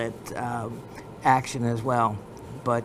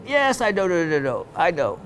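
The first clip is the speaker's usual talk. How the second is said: Pakistani dealer impression, higher on the opening yes; hurried admission in a mock Pakistani accent; imitated Pakistani accent; 4 semitones higher, faster than usual. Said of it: "I'm sorry for my imitating the accent".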